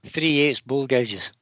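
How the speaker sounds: slowly, word by word; slow, clear repeat. Real, not acted. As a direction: spell it out for someone who missed it. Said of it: "Any what? Sorry?".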